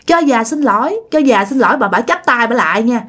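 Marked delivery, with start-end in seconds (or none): 0.1-1.8 acted wailing apology, mildly raised; mock tearful pleading. Caught old woman begs the couple's forgiveness, mock tearful pleading. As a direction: beg forgiveness in a pretend weepy voice. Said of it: "bả mới khóc lên".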